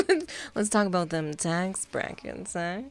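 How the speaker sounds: slow sultry mock voice; half-hearted seductive drawl; sexy voice. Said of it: "I can't do an Ordis voice".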